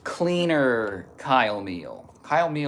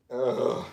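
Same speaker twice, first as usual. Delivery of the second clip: strained groan. Real, not acted. Groan during stretch.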